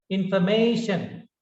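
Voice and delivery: information said as in-for-MAY-shun, every syllable clear; correct pronunciation. Shown as a demonstration. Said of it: "The correct pronunciation is".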